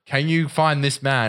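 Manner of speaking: slow, mock British plea; British accent. Cousin appeals to viewers online, mock British accent. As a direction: imitate a British dad, drawn out. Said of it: "British accent".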